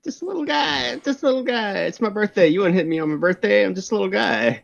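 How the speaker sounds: small, mock-pitiful voice; mock pleading. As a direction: lightly play a harmless little guy begging off. Player replays plea as harmless little guy.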